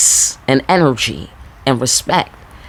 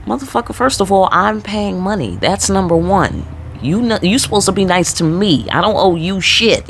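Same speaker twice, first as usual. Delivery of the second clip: mock clapback pitched higher; indignant retort; 5 semitones higher than usual. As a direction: fire back at the clerk, half-playing it up. Retold clapback at rude clerk.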